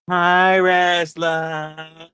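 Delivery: slow, sing-song group chorus "Hi, wrestler"; drawn-out group reply. Acted. Group members greeting the newcomer, slow chorus. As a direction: answer like a whole support group.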